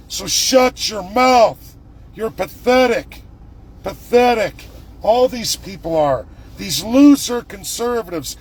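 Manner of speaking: heated, pushing harder line by line; furious at the people calling him names; angry rant. Real, not acted. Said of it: "I'm angry, you can hear it".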